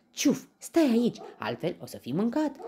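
high, loud alarmed warning; horrified grandma. A narrator's reading. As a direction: cry out in alarm to stop him. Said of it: "exclamă îngrozită bunica". (bunică îngrozită)

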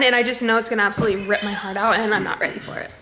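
fast and giggling through the words; laughing. Real, not acted. Vlogger admitting to viewers a book will hurt, laughing. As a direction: laugh off the dread. Talking about sad book ending.

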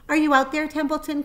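high, loud call across the yard. A narrator's reading. Pig calling out into the rain for the rat. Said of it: "called Wilbur".

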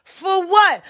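mock indignant question; mock retort. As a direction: snap back in disbelief. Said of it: "Oh, but you wanna give me my karma".

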